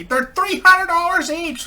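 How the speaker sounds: high, slowed mock yell; imitated scolding, high-pitched; yelling girlfriend. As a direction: screech it like an angry girlfriend. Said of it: "She's, like, yelling at me".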